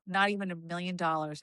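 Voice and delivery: firm refusal. Retold or imitated. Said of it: "I go".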